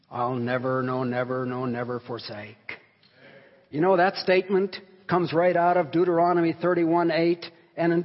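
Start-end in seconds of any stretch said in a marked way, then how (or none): 0.1-2.8 low, measured reading of the promise; solemn hymn reading. Acted. Preacher reading the hymn's last stanza to congregation, low and solemn. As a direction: recite it low and evenly, without pushing.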